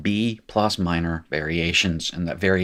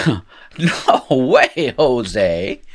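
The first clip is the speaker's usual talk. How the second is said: loud, hammed-up "absolutely not"; mock refusal; 4 semitones higher, 6 dB louder, much slower than usual. Teacher playing Hebrew rejecting the form, mock refusal. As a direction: start high and loud, dropping at the end. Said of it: "looks at this and says".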